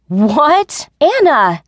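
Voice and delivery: high, loud, shocked scolding; hissed reproach. A narrator's reading. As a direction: burst out to stop a friend talking. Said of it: "I hissed".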